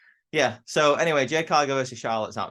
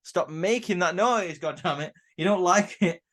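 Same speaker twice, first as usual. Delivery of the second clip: higher, slow, annoyed mock telling-off; mock scolding Roman; 6 semitones higher than usual. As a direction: drag it out like an irritated big cousin. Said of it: "Roman goes".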